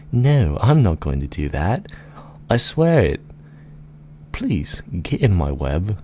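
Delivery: theatrical, wheedling storybook spider; pleading spider. Acted. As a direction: coax them as a giant spider swearing innocence. Plays the gigantic spider.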